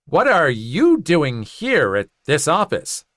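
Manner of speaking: a touch of slow condescension; lightly mock the teacher's snide question; mildly snide, slow; snarky. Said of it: "in her same snarky voice".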